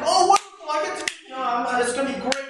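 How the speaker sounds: gushing, high start that drops away; mock an eager rep who can't stop talking; hammed-up gush of a rep too eager; overexcited blabbering. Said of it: "They get so excited".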